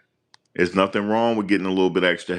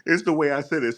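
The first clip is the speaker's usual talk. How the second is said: laughing; 10 semitones higher than usual. Real, not acted. Laughing at own special ed line.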